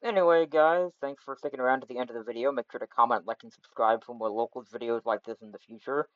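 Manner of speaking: cheap USB mic sound; bad mic quality. Real, not acted. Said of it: "sorry about the bad mic quality".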